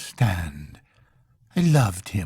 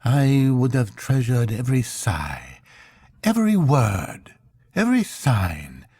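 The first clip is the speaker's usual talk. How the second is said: raised, aching voice full of loss; grieving intended; 4 semitones higher than usual. Acted. Intended grieving to Marlow over Kurtz, raised aching voice. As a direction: pour out a long-held grief.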